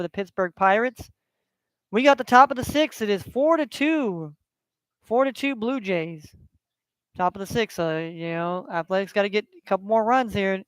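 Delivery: casual sportscaster reading scores; relaxed sports-update announcer voice; play-by-play score update. Acted. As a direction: read out the scores like a live broadcast. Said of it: "live play-by-play broadcast".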